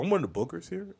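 high, proud little announcement; high-pitched. Retold or imitated. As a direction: pipe up proudly. Acting herself meeting headliner.

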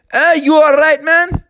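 high, concerned check-in; worried pitcher. Acted. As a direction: ask if he's hurt.

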